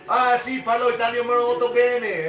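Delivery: imitating Lucas. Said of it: "And he goes".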